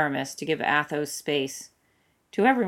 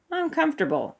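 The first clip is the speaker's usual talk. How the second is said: much higher, clipped denial; stubborn refusal; 12 semitones higher than usual. A narrator's reading. Athos refusing Aramis's offer. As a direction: insist you're fine.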